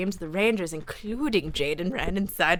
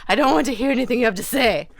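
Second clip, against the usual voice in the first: put-on upset girl; 5 semitones higher, 7 dB louder, faster than usual. Upset girl refusing him.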